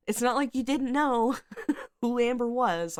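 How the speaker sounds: can't help laughing at how obvious it was. Real, not acted. Laughing at Amber's obvious nature.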